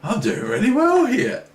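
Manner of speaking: high, loud whoop, then a high excited boast. Retold or imitated. Mocking his own excitement at winning, loud high whoop. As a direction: cheer like you're winning. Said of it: "And I'm getting excited".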